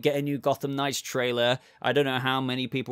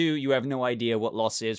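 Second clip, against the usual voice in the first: Pedro Pascal's delivery. Retold or imitated. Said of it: "comparing it to".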